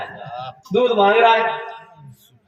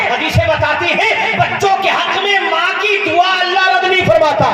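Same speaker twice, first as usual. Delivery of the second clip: preaching that builds higher and louder; a preacher's rising, fervent appeal; impassioned preaching; 9 semitones higher, 5 dB louder than usual. Acted. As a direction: swell the voice as you praise the father. Preacher rising to full force.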